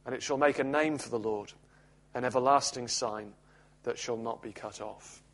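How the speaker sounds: measured, solemn Bible reading; scripture reading. Acted. Preacher reading Isaiah to the congregation, solemn reading.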